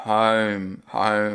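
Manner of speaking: "Home" with a long sliding o; Aussie home. Shown as a demonstration. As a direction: draw out the vowel in "Home". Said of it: "quando ele fala home". ("home" com o vogal arrastada)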